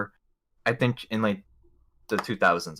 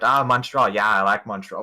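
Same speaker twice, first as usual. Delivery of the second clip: mock Boston guide; 4 dB louder than usual. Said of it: "He's like".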